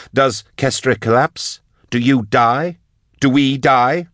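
high, pressing questions; anxious demand. Acted. Drusha demands the consequences.

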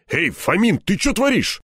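high indignant challenge. A narrator's reading. Степаныч challenges Фомин over the lock, indignant. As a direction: protest in a jump of pitch. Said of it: "возмутился Степаныч".

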